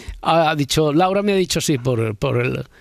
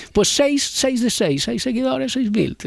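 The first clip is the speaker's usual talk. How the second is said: high, sing-song mock half-Galician accent; Laura Martínez; 8 semitones higher, slower than usual. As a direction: affectionately mimic a colleague's half-Galician, half-Asturian lilt. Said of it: "con todo el cariño del mundo estaba haciendo".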